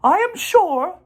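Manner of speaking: high, formal spider voice; high, prim announcing voice; Charlotte's announcement. A narrator's reading. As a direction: announce it grandly like a dainty spider. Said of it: "made the announcement".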